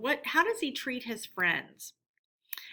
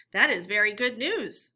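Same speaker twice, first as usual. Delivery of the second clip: grave; 5 dB louder than usual. Acted. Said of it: "said the mole gravely".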